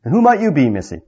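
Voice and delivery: sneering dwarf. Acted. Sneering dwarf addresses Jill.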